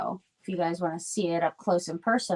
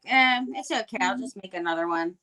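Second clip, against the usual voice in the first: mildly imitating a breezy brush-off; nonchalant shrug. Crafter imitating her friend shrugging off a lost book, nonchalant. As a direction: toss it off with a verbal shrug. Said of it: "her nonchalant attitude".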